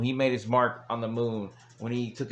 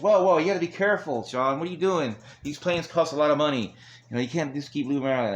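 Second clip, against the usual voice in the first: higher, quicker retold scolding; mock alarm; 4 semitones higher, 3 dB louder, faster than usual. Triple H warns Shawn about marking the plane, mock alarm. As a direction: imitate someone urgently telling a friend off.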